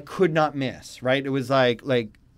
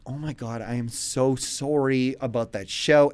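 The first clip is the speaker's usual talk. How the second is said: sheepish apology; 4 semitones lower, 6 dB quieter than usual. Retold or imitated. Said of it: "and I was like".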